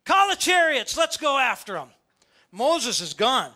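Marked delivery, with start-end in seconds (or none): 0.1-1.9 higher, louder command; amped-up Pharaoh. Retold or imitated. Pharaoh ordering his army, loud high command. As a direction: bark the order. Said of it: "he's like".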